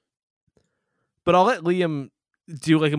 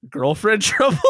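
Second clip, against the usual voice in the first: quoting a clumsy line; 5 semitones higher, 3 dB louder than usual. Retold or imitated. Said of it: "then they go".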